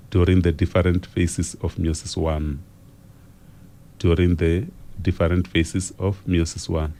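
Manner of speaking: unhurried reading that leaves time to write; slow dictation. Real, not acted. Teacher repeating each phrase of the question for students, slow dictation. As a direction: dictate in short phrases, pausing after each. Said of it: "so that you are able to write it down".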